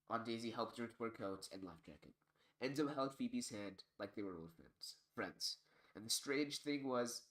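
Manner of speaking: steady, expressive storybook narration; story narration. A narrator's reading. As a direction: read a story aloud to listeners.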